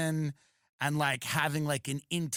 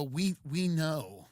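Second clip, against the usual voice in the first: mock tender counselors; 3 dB quieter than usual. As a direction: coo at him like a child. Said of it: "and they go".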